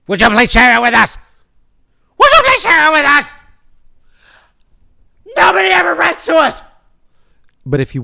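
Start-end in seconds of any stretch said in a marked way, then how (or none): 0.1-1.2 loud, high, fast plea; mock pleading. Pleading listeners for mail. 2.2-3.3 much higher, louder, fast whiny plea; hammed-up begging. Pleading listeners for mail. 5.4-6.6 high, loud, fast complaining shout; mock whine. Mock complaint about no mail.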